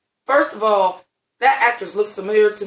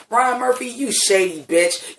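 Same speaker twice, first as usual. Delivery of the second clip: sassy call-out; 4 semitones higher, slower than usual. Retold or imitated. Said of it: "I'm like".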